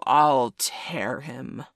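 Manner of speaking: very slow whispered threat; menacing whisper. A narrator's reading. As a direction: hiss it out slow and breathy. Hook vowing revenge.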